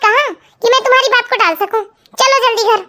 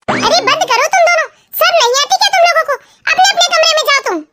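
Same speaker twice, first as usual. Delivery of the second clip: scolding; 4 semitones higher than usual. Acted. Mother scolds the two again.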